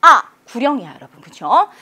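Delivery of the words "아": short, loud shouts dropping sharply; forceful falling tone. Shown as a demonstration. Teacher giving a command for the fourth tone, forceful. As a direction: bark it out with force, like a drill count. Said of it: "힘을 내서".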